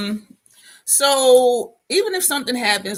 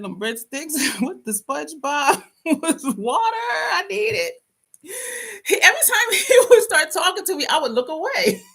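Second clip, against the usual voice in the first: helpless giggles breaking up the words; laughing; 7 semitones higher than usual. Real, not acted. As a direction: talk through real laughter, high-pitched. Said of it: "I need to stop laughing".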